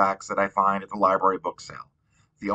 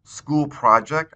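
shrugging; 4 semitones higher, slower than usual. Acted. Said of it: "I say with a shrug".

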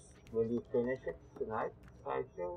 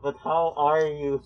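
muffled Plague Doctor voice; 3 semitones higher, 9 dB louder than usual. Acted. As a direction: talk like a plague doctor through the mask. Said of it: "That's how the Plague Doctors talk".

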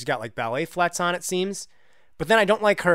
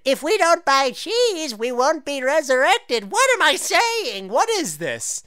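baffled high voice; 10 semitones higher, slower than usual. Real, not acted. Reading odd game text.

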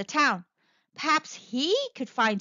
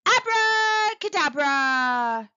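slow, drawn-out magic incantation, pitched up; shouted spell; 5 semitones higher, 4 dB louder, much slower than usual. A narrator's reading. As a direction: cast the spell loudly, stretching the syllables. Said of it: "and shouted".

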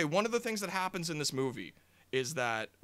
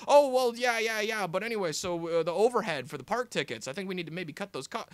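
brushing it off; 4 semitones higher, 7 dB louder than usual. Retold or imitated. Clown dodging the topic.

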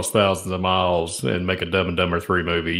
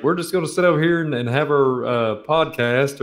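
mock customers; 5 semitones higher than usual. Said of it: "people be like".

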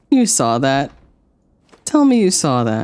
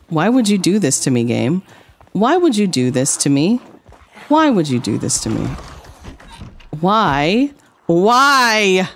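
betrayed and heartbroken; 4 semitones higher than usual. Real, not acted. Pleading with the game.

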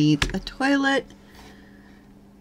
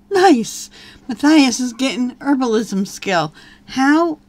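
much higher and louder, delighted; surprised; 5 semitones higher, 7 dB louder than usual. Real, not acted. Player sees Matthias gain a skill, surprised. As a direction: burst out in happy surprise.

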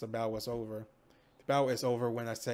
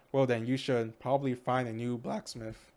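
cracking voice on the line. Real, not acted. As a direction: voice breaks mid-sentence. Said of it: "That voice crack again".

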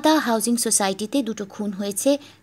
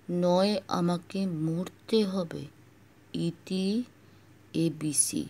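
low, slow, hushed read; 4 semitones lower, 3 dB quieter, slower than usual. Acted. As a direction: read the note under the breath. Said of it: "চাপা স্বরে পড়তে থাকলেন".

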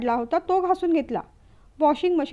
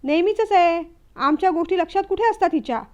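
melodramatic outburst; 3 semitones higher, 3 dB louder than usual. Acted. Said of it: "आकांड तांडव सुरू केलं".

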